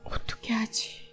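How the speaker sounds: soft, breathy whisper of worry; worried whisper. Acted. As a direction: whisper it to yourself, fretting. Woodcutter's worried murmur.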